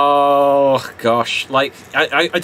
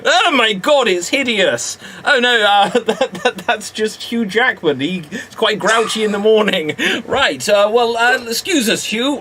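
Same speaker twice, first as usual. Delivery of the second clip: higher, quick, eager detective voice; posh Sherlock voice; 4 semitones higher than usual. Pretend. Improv sketch, Sherlock to Watson, higher brisk voice. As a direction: play a brisk Victorian sleuth.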